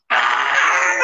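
mock excited cry; long drawn-out "Ah"; excited squeal. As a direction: cry out in playful disbelief. Mock excitement at reaching episode seven.

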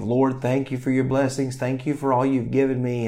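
hammed-up sweet thank-you prayer; cheesy prayer. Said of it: "in some, uh, cheesy way".

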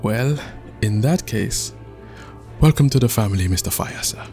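mildly cowed, hesitant welcome; weak surrender. Acted. Chief welcoming a feared son-in-law, weakly. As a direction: give in reluctantly, fading at the end. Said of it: "and weakly said".

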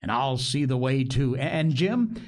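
rambling, earnest castaway confession; lightly voiced, eager to prove his piety. Castaway telling the boy his life story, earnest and rambling.

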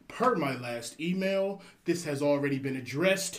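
slow, prim corporate email voice; passive-aggressive office politeness; politely impatient. Acted.

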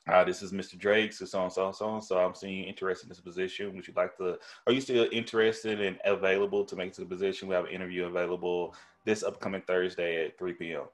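proper phone voice. Retold or imitated. Recruiter calling a candidate about an interview, proper and polished. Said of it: "I thought that was proper as shit".

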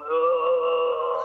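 queasy groan; imitated groan of nausea. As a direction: groan like about to be sick.

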